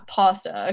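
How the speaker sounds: pasta with an open "ah"; first vowel of pasta like "father"; own pronunciation. Shown as a demonstration. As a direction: say pasta as PAH-stuh. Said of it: "that's how I say it".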